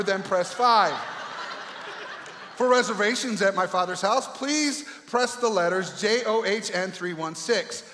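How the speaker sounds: lightly voiced automated hold message; phone menu voice. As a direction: recite options like a recorded operator. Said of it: "What if God used the familiar excuse".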